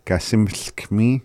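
"Gasimskmi" said slowly, ending in a clear ee. Shown as a demonstration. Teacher makes the hawk little, slow word ending in ee. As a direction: say "Gasimskmi" slowly, finishing on mee. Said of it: "putting the E at the end of it".

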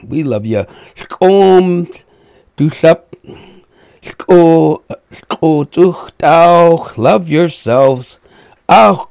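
loud, fast and high, full of energy; excited sign-off. Real, not acted. Radio host signing off to listeners, excited and loud. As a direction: rev up the goodbye to the listeners.

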